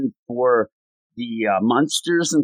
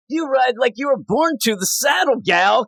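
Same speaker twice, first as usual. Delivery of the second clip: high-pitched mild mock yell; imitated yelling; 8 semitones higher than usual. Adult yelling at a teen out of the blue, mock yell. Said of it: "one of the adults at one point yelling".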